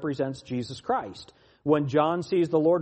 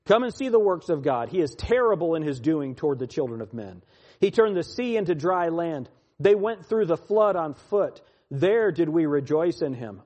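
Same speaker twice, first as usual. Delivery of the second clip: emphatic psalm reading, key words punched; scripture reading; 3 dB louder than usual. Acted. Preacher reads the psalm to his listeners, declaimed. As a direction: declaim the psalm with surges of force.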